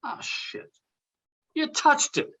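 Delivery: high, tense alarmed whisper rising to a cry; sudden fright at the fingerprints; panicked. Acted. Alarmed friend realizing the fingerprints are on it, panicked.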